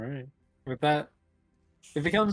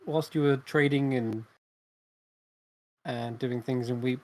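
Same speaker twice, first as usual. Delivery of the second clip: game master narration. A narrator's reading. Game master's scene setting.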